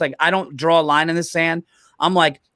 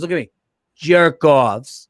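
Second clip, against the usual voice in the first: Bronx Tale mobster; 3 semitones lower, slower than usual. Retold or imitated. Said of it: "like Chaz Palminteri in, um, A Bronx Tale".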